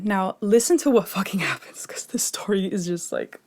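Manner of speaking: hushed, secretive whisper to draw the viewers in. Real, not acted. Vlogger whispers to viewers before the twist, hushed. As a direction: lean in and whisper the tease. Teasing the crazy part of story.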